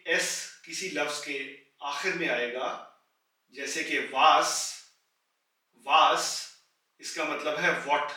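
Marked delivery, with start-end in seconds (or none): 5.9-6.2 वास ending on a sharp एस; final S. Shown as a demonstration. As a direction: end वास on a crisp एस. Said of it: "आवाज एस की निकलेगी". (वास के अंत में तीखी एस)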